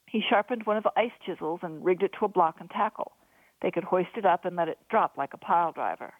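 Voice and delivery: ordinary delivery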